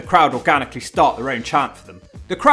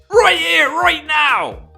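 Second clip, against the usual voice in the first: high excited woman voice; 12 semitones higher, 5 dB louder, much slower than usual. Pretend. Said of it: "Goldilocks said".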